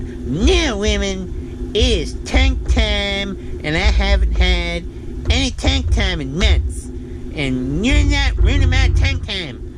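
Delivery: husband proclaiming his rights, hammed up; mock-defiant decree. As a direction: lay down the law like a pompous king. Retelling defying wife on phone.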